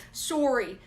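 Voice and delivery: put-on teasing Canadian-accented apology. Co-host teasing the other about her accent, playful Canadian accent. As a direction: mimic a Canadian saying sorry. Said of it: "Do you see her Canadian accent?".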